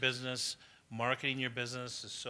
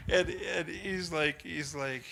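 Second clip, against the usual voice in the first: high, loud, slow words while still laughing; laughing through words; 6 semitones higher, 8 dB louder, much slower than usual. Real, not acted. Speaker still laughing while retelling her mentor's words. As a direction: let the laugh carry the words.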